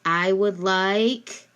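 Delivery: very slow "I would like," left open; slow prompt. Shown as a demonstration. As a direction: stretch it out and stop. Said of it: "so you can say".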